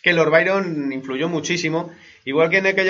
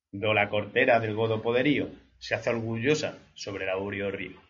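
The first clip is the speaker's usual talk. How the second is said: measured verse reading, fading at line ends; poetry declamation. Acted.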